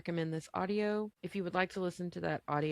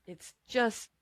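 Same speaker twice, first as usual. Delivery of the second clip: breathy whispered aside; 4 semitones higher, 3 dB louder than usual. Real, not acted. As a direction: drop into a whisper. Sudden aside about the audio.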